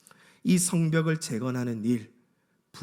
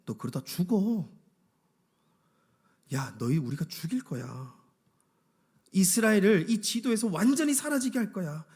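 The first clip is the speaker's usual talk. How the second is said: threatening; 4 semitones higher than usual. Acted. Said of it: "끊임없이 이 이스라엘 백성들에게 찾아와서 협박하는".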